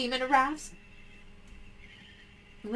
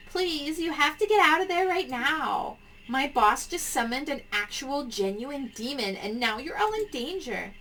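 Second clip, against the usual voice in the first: panicked caller; 4 semitones higher than usual. Acted. Voices panicked caller Tammy.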